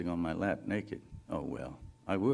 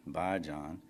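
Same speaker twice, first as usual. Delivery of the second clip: sexy goodbye; 4 semitones lower than usual. Acted. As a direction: say goodbye low and inviting. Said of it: "there's the note you want".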